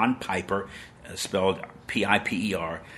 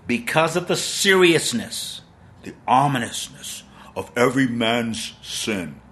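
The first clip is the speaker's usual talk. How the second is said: mock-solemn quote; 2 semitones higher than usual. Quoting the preacher slowly, with a mock ominous tone. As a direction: draw out the ominousness. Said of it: "he says".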